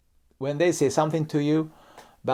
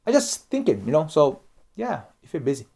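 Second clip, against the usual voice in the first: gentle reassurance; 5 semitones higher than usual. Shown as a demonstration. Speaker easing pressure on a busy colleague, reassuring. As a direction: reassure them it's fine. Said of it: "just say it".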